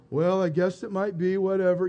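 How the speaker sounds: lightly voiced gloomy donkey, low and droning; Eeyore voice. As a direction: drag it out like a bored, mopey Eeyore. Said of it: "always talking like this".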